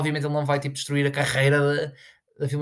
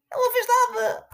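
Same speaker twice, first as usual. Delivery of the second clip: loud insistence; 5 dB louder than usual. Acted. Ranting, repeated line.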